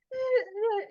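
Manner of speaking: high-pitched imitated crying; loud, high wordless mock sobs; mock tearful sobbing. Katie in tears when asked what happened, mock crying. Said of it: "her eyes go down in tears and she's like".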